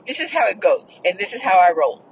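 measured, emphatic statement of terms; firm retort. Retold or imitated. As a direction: retell it as mildly laying down the law. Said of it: "that's how I said it".

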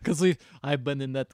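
lightly put-on Russian accent; bad Russian accent. Voicing Shrek's love talk, mock Russian accent. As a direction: play him with a hammy Russian accent. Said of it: "I don't know why he's Russian now".

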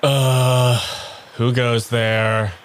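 slow, dopey troll guard; lightly voiced troll calling out. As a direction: drawl it out like a bridge troll. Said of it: "It goes".

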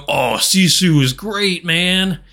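laid-back bro drawl. Retold or imitated. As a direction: say it like a chill bro. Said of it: "I didn't mean to do a bro voice there".

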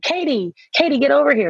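mock parent calling. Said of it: "I'm like".

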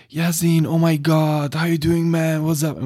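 high-pitched gushing stoned partygoer; high party guy. Retold or imitated. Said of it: "he was high as fuck".

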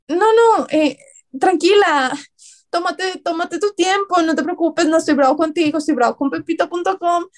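calm her down kindly; reassuring customer. Retold or imitated. Client comforting the crying agent, lightly voiced. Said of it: "fue como".

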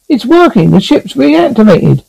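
excited shout. A narrator's reading. Telling crewmates the ship works, shouting. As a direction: call out the good news. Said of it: "he shouted".

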